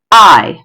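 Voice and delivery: "I" stressed, set apart on its own; stressed syllable. Shown as a demonstration. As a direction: land firmly on "I" as the strong beat. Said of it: "and then a stressed syllable".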